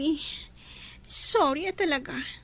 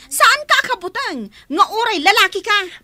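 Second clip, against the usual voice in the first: angry retort; 7 dB louder than usual. Acted. Daughter shouting back at classmate.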